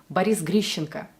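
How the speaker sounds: Boris Grishenko with the Russian sh; Russian name pronunciation. Shown as a demonstration. Coach showing viewers a tricky Russian name, correctly pronounced. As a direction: say "Grishenko" with a Russian sh and reduced last vowel. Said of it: "it has this tricky sh sound".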